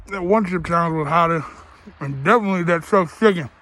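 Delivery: talking through a mouthful; words round a bite of food; mouth full. Real, not acted. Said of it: "Shouldn't talk with my mouth full".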